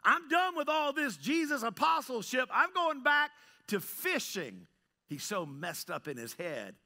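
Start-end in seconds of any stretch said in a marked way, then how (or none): 0.0-4.7 high, emphatic announcement of quitting; frustrated. Acted. Peter quitting apostleship to go back fishing, frustrated. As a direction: act out being fed up and done. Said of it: "He's so frustrated and he feels like a failure".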